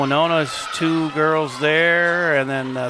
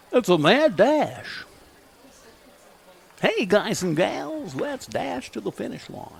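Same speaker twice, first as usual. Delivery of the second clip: slow, big announcer voice; old radio voice; 7 semitones higher than usual. Shown as a demonstration. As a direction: boom it out like an old AM jock. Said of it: "It's my old radio voice".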